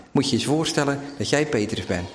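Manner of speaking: normal talking voice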